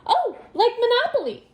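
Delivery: put-on high, eager child's cry; excited exclamation. A narrator's reading. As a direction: burst in with keen excitement. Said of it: "Violet exclaimed".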